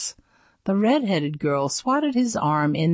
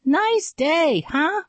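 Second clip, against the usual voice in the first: high, thin nervous squeak; squeaky nervous voice; 11 semitones higher, slower than usual. Acted. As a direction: squeak it out like a scared kid. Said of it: "I squeaked".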